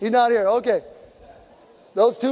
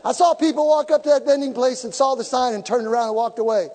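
ordinary talk, nothing marked

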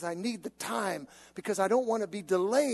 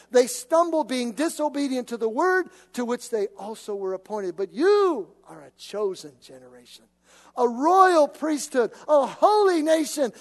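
swelling, louder preaching read; scripture reading; 6 dB louder than usual. Acted. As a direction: preach the verses with rising force.

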